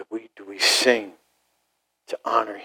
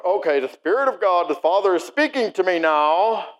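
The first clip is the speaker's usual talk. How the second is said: slightly raised, showy spiritual voice; mock mystic; 5 semitones higher than usual. Preacher mimicking a self-important mystic, mock-spiritual. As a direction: lightly parody someone hearing from heaven. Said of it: "You never see that happening".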